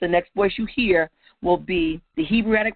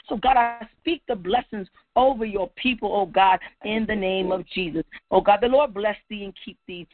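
rhythmic prayer cadence, firm and declaring; preached prayer; 2 semitones higher than usual. Real, not acted. Preacher speaking blessings over God's people, declarative prayer.

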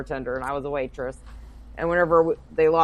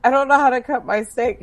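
high, louder imitation of a friend; insistent repeated confession; 7 semitones higher, 5 dB louder than usual. Friend repeating her confession to stunned dinner companion, insistently. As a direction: repeat it up high so it can't be missed.

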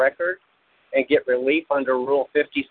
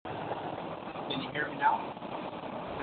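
distant, faint voice; far from mic; 16 dB quieter, much slower than usual. Real, not acted. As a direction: sounds like across the room. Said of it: "your microphone sounds like you're across the room".

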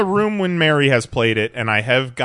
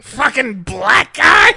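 robot voice; 12 semitones higher, 5 dB louder than usual. Retold or imitated. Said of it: "saw a few".

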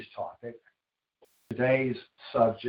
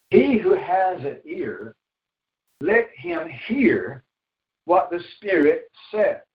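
raised, emphatic Bible reading; scripture reading; 4 semitones higher than usual. Acted. Preacher reading Revelation to the congregation, emphatic scripture reading. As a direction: read the verse out with measured pauses.

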